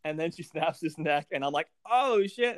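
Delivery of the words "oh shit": higher startled exclamation; shocked. Retold or imitated. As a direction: blurt it out in disbelief. Recalls shock at neck snap.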